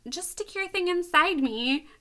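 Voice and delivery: lightly acted desperate plea; begging. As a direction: beg with hammed-up urgency, stretching the ending. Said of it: "So she begs him".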